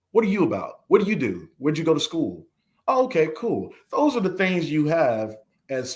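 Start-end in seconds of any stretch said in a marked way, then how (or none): 0.1-3.7 higher-pitched, acted-out casual questions; mock friendly small talk. New friends trading basic questions, mock friendly small talk. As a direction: play the easygoing new friend asking around.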